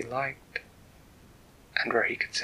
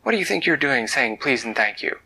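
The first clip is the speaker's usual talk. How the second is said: scolding dragon parents; 2 semitones higher, 5 dB louder than usual. Acted. Dragon parents scolding Edvard at the table, mock stern scold. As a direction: tell him off at the dinner table. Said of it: "his mother and father would say at the table".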